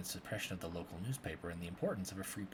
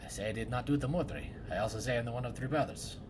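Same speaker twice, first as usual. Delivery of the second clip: archaic woodcutter drama; 2 semitones lower than usual. Acted. Woodcutter interrogating suspects about the murder, hushed and theatrical. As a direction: play a solemn woodcutter grilling suspects in a murder. Voices woodcutter and tree dialogue.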